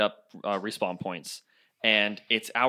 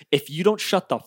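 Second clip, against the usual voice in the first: retold angry threat; 3 semitones higher, 6 dB louder than usual. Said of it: "the angriest I've ever seen you".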